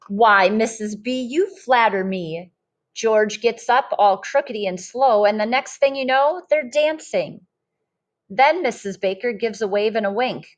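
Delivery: lively storybook read-aloud voice; reading to children. Acted. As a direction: read it like a picture book to a class. Teacher reads picture book aloud.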